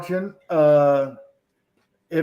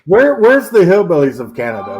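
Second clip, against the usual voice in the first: louder joking take on Where, where's the hillbillies of Canada, hamming it; mock question; 7 dB louder than usual. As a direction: bark it out as a bit, WHERE stressed and louder. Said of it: "Not for real, though".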